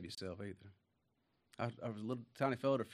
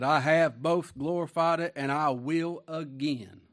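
voice of God; 4 semitones higher, 8 dB louder, slower than usual. Acted. Voices God speaking from heaven.

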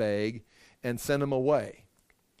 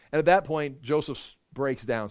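normal talking voice

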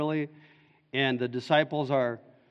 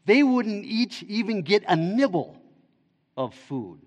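higher, louder anxious objection; voicing Andrew; 6 semitones higher, 3 dB louder than usual. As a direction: play Andrew fretting about the shortfall. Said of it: "Andrew says in a parallel passage".

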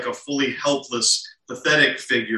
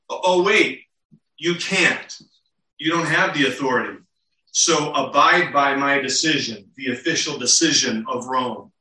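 mock-sarcastic taunt, modern tone; lightly voiced Pilate teasing the leaders. Pilate taunting the leaders in modern slang, sarcastic. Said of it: "in the modern vernacular".

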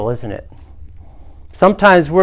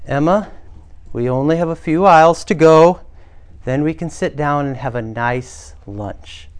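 calm. Acted. Mom coaxing through the candy aisle, calmly. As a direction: stay composed, pausing between phrases. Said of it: "the mom spoke calmly".

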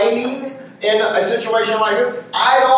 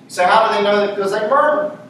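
ordinary talk

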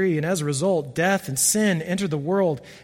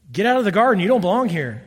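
stern command; 3 semitones higher, 5 dB louder than usual. Pretend. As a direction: drive him out with a firm voice. Adam should rebuke the serpent.

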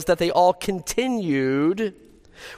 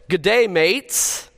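drawn-out Australian greeting; Australian accent; slower than usual. Acted. Preacher quizzing congregation on where a speaker is from, Australian accent. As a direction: greet them like an Australian, stretched out.

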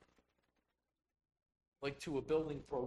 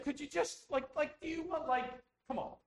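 mock exasperated; 14 semitones higher, 7 dB louder than usual. Mimicking indecisive customer.

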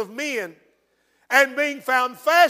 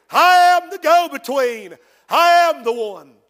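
louder, ringing declarations in the voice of Jesus; proclaiming Jesus; 5 dB louder than usual. Acted. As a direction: proclaim each I am with full force. Preacher voicing Jesus declaring himself.

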